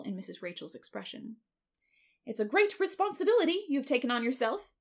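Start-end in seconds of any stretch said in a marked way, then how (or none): 2.3-4.7 high, emphatic foreboding; ominous busybody warning; gloomy. A narrator's reading. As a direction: warn with loud, swooping gloom. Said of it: "said that lady gloomily".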